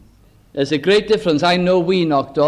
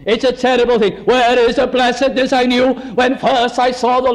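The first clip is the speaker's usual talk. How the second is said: higher-pitched, urgent sermon delivery; impassioned preaching; 4 semitones higher than usual. Acted. Preacher warns congregation of the devil's foothold, impassioned. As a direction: preach it as a pressing warning.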